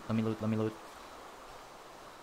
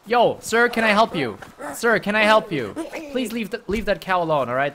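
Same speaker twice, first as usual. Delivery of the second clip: calling out; 6 semitones higher, 4 dB louder than usual. Real, not acted. Calling to a player near a cow.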